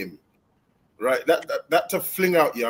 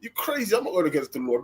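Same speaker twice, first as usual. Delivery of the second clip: incredulous retort; 4 semitones higher, 3 dB quieter, faster than usual. Retold or imitated. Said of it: "she's like".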